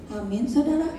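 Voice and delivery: a stronger call of "Amin, saudara". Shown as a demonstration. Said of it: "Yang keras".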